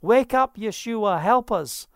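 high, hammed-up wail of alarm; mock panicked screaming. Disciples in the storm waking Yeshua, mock panicked screaming. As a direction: wail it as imitated panic, then cry out for help. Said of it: "They're all screaming".

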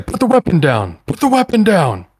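high, escalating shouted warning; shouting. Acted. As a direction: shout it as an armed officer's order. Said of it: "is shouting".

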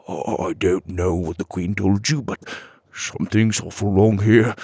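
lightly voiced nervous old fairy; nervous villager. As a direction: stammer it out like a worried villager.

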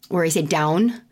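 Midwestern vowel in down, said plainly. Shown as a demonstration. To listeners about her own accent, Midwestern down. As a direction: show your Midwestern down. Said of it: "I have very much a Midwestern accent".

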